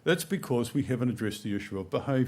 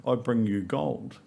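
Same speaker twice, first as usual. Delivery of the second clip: put-on slow, careful little-kid recitation; slow child recital; slower than usual. Small wise man in the nativity play recites his line slowly.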